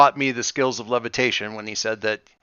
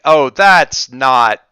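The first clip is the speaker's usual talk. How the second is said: wary pilot; 6 dB louder, slower than usual. Acted. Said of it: "Ebon Skull ships that hail us, like".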